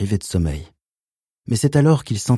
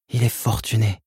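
higher nervous pleading mother; 4 semitones higher than usual. Acted. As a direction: plead and reassure at once. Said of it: "Sa voix était implorante".

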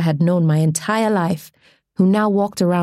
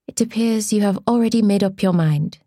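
calm; 3 semitones higher than usual. Acted. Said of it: "I said calmly".

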